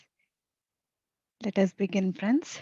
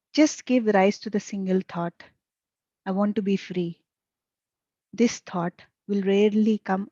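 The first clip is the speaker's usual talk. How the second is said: measured, emphatic reading of a master's teaching; deliberate teaching read-aloud; spiritual reading aloud. A narrator's reading. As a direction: read it out phrase by phrase, with pauses.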